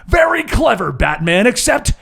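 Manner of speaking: slow, taunting villain; villain's mocking reply. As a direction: savour every word of the counter. GM voices villain.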